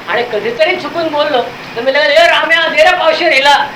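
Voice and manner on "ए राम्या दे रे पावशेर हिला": calling out a bar order. Retold or imitated. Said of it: "करून लगेच आवाज देतो मी".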